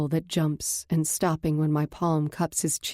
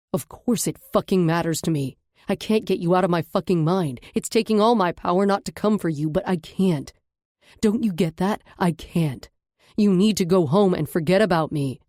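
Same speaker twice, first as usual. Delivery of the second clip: a lightly voiced man, rising to a louder angry outburst; angry man's voice; 2 semitones higher, 4 dB louder than usual. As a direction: hold the man, heat building toward the end.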